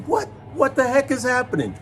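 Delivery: high, panicky yelp of alarm; panicked high-pitched cry. Retold or imitated. Man jolted by a quake, panicked high cry. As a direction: squeal it like the floor just moved. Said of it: "screaming high pitch. That was me".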